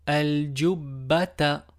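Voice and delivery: Al, djoubata drawn out, very slow; slow blended word. Shown as a demonstration. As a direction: stretch Al, djoubata out evenly. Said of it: "slow blended reading". (lecture très lente)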